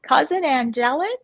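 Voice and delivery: Curly Q two impression. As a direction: imitate a streamer hailing a relative. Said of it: "asks for a Curly Q two impression".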